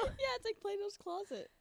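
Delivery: laughing, pitched high; laughing, playing it up high; sounding smart. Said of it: "are you trying to sound smart right now?".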